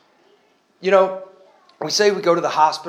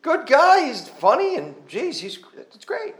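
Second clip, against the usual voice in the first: much higher, gushing mock praise; imitating admiring churchgoers; 11 semitones higher than usual. Churchgoers praising Paul as a good guy, mock gushing and much higher. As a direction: play the neighbor who thinks he's a nice guy. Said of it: "you would have said".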